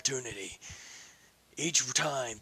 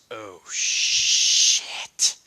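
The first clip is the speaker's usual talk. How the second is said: loud, sudden breathy curse; a startled swear at full volume; alarmed curse; 4 semitones lower, 10 dB louder than usual. A narrator's reading. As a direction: blurt it out in alarm. Sudden realization.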